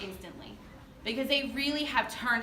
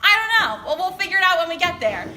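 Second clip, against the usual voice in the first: mock flustered reply; 6 semitones higher, 8 dB louder than usual. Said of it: "And I was like".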